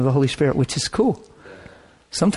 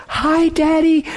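tearful daughter's greeting; 13 semitones higher, slower than usual. Retold or imitated. Daughters greeting dying father.

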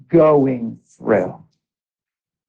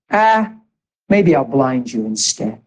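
mocking taunt; slower than usual. Preacher voicing the voice that threatened him, a mild mocking taunt. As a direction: imitate a sneering taunt, mildly. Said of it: "in a mocking, taunting tone".

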